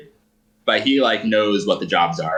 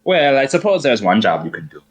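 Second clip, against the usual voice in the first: effeminate German man; 4 semitones higher, 3 dB louder than usual. Acted. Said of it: "effeminate German man".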